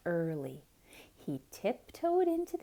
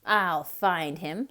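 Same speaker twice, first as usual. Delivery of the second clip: scoffing; 3 semitones lower, 4 dB louder than usual. Acted. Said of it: "scoffed the cat".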